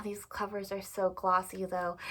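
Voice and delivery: whispered aside about the glossy covers. Real, not acted. Admiring glossy book covers, she whispers an aside. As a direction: drop to an unvoiced whisper, admiring.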